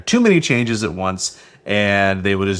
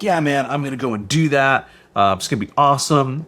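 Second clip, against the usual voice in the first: lightly imitated eager self, a little higher; gung-ho; 4 semitones higher than usual. Recalling his plan to a podcast audience, mildly gung-ho. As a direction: retell it with a touch of gung-ho keenness. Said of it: "I was all gung-ho".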